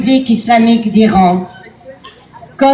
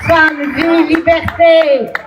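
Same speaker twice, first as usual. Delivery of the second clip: shouted slogan; 4 semitones higher, slower than usual. Real, not acted. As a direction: call the slogan out to the crowd. Rally slogan chanted to crowd.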